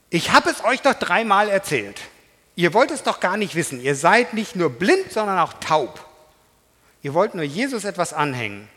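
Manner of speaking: loud, fed-up scolding; exasperated rebuke. Acted. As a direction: tell them off, done with them. Healed man rebukes the Pharisees. (genervte, laute Zurechtweisung)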